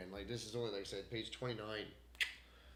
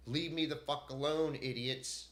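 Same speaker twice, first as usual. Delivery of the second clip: angry outburst; 3 semitones higher, 3 dB louder, slower than usual. Real, not acted. Venting at the company.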